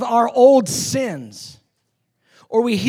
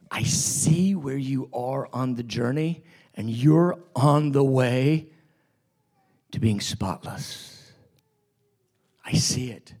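tender Jesus; 8 semitones lower than usual. Acted. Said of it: "He goes".

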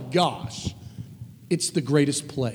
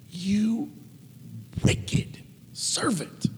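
angry; 3 semitones higher, 5 dB quieter, much slower than usual. A narrator's reading. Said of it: "In anger".

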